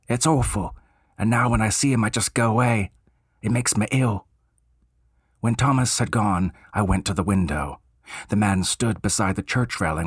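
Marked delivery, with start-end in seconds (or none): 0.1-4.3 higher Cockney voice of an eager bellboy. Acted. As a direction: play the chatty Cockney servant, keen to help.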